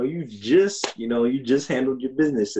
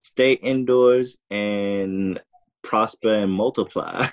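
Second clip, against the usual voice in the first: mock preacher; 3 semitones lower, much slower than usual. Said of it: "Honorable Elijah Muhammad once said".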